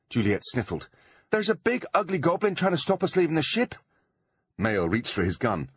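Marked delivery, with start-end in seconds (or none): 1.3-3.7 high, hammed-up damsel voice; faked tearful plea. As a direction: keep the fake panic going. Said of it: "crying hysterically".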